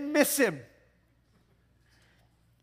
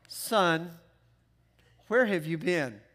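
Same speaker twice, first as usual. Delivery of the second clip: calm mild tone; 4 semitones lower, slower than usual. Retold or imitated. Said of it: "she didn't use that tone".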